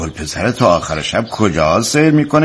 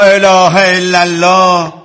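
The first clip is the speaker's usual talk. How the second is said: slow, drawn-out, higher exclamation; exasperated exclamation; 6 semitones higher, 4 dB louder, much slower than usual. Acted. Father losing patience with his pleading wife, loudly exasperated. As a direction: stretch it out as patience runs out.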